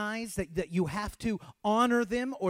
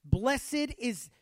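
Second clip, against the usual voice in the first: shouted verse; 7 semitones higher, 4 dB louder than usual. Shown as a demonstration. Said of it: "Next verse".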